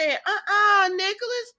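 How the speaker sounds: high, loud scolding cry; scolding shout. Retold or imitated. Viewer scolding Nicholas through the screen, loud. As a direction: call him out sharply. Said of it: "so I said".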